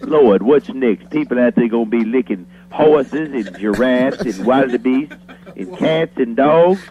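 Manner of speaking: lightly voiced country deacon, preaching mock outrage; a hint of a fired-up small-town preacher sermonizing; Deacon Paul Brown. Radio deacon preaching to listeners about frog licking, mock fire and brimstone. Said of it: "Deacon Paul Brown from the Mountain Island Baptist Church".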